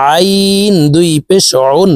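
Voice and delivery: আইন and উন squeezed from mid-throat; mid-throat ain. Shown as a demonstration. Teacher showing the letter ain, mid-throat squeeze on উন. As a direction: start উন with a tight throat ain. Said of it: "হলকের মধ্যখান থেকে উচ্চারণ করব".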